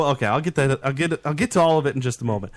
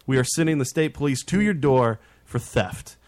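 raised-pitch, official-sounding threat; company president's ultimatum. Retold or imitated. Company president warns the driver on voicemail, imitated stern ultimatum. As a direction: lay down an ultimatum as the boss. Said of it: "and the president goes".

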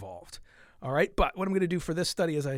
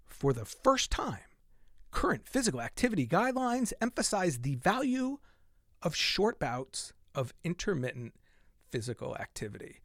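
slow emphatic reading. Shown as a demonstration. Reading the key line that took her breath, slowly. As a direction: savor the doozy line, drawing it out. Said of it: "Let me read that line again".

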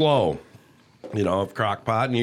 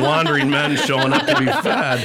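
laughing; 3 semitones higher, 3 dB louder than usual. Real, not acted. Teasing joke between hosts.

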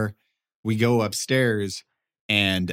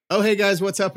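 high, bright mock greeting; cheery greeting; 11 semitones higher, 5 dB louder than usual. Spotting the guys again at GameWorks, high cheery greeting. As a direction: greet them with a high hello. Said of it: "And I'm like".

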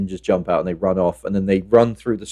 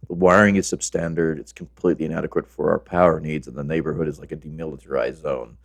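deadpan inspector; 4 semitones lower than usual. Acted. Reciting film character's firehouse verdict.

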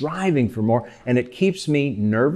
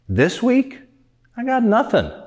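mock despair; 9 semitones higher than usual. Joke punchline, sad friend.

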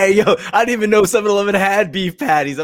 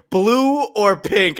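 drawn-out, higher mock slogan; slow mock announcement; 5 semitones higher, much slower than usual. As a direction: spell it out slowly, like a corny ad. Mimicking Chick-fil-A's slogan.

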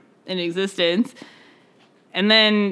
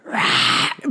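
whispered bear roar. Pretend. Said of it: "Can you make a bear?".

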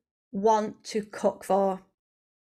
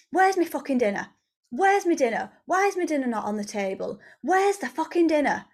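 higher-pitched mock demand; demanding partner; 5 semitones higher, faster than usual. First partner arriving late wanting dinner, cross demand. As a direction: play an entitled partner griping for dinner. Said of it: "can you imagine that energy".

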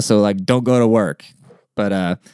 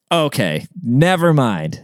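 giving up on them, retold with annoyance; curt dismissal; 3 semitones higher, slower than usual. Customer gives up on an unhelpful clerk, dismissive. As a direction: drop it, as if throwing up your hands. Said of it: "I literally said it just like that".

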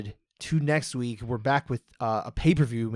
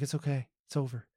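softly imitated calming reassurance; soothing; 3 dB quieter, faster than usual. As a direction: gently talk someone down. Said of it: "you even got the soothing sound of".

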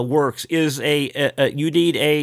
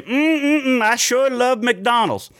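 stereotyped ad voice; 8 semitones higher than usual. Retold or imitated. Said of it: "a black person say".

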